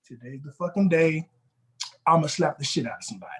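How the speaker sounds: low, grim voice of a fed-up worker. Retold or imitated. Worker to himself at work, low and grim. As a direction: mutter it low like a worker at the end of his rope. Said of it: "But one day you just like".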